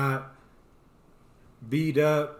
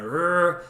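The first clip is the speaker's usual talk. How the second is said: mock growl; 3 semitones higher, 4 dB louder than usual. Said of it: "I'm feeling kinda".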